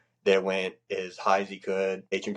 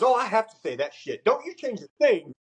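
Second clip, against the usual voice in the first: chief's voice; 13 semitones higher, 3 dB louder than usual. Retold or imitated. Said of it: "He goes".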